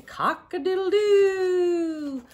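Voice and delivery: high crowing cock-a-doodle-doo; rooster crow. Acted. Teacher reading to kids, crowing like a rooster.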